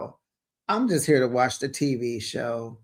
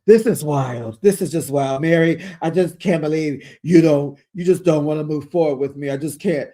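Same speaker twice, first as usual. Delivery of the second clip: flustered; 4 dB louder than usual. Acted. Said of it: "She just can't even finish".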